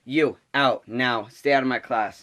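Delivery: retold command to get out; mock stern order. Substitute to girl who badmouthed her, stern.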